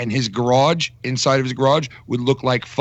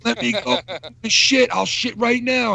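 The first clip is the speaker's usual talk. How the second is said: pleading thief; 10 semitones higher than usual. Retold or imitated. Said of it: "He was going".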